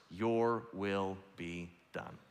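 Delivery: slow, soft, reverent; quiet prayer. Shown as a demonstration. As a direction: say the four words gently. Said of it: "because of four words".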